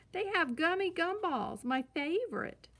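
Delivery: put-on high, eager little-girl voice; eager girl cub. A narrator's reading. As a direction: beg for the candy like a small child. Sister cub begging for candy.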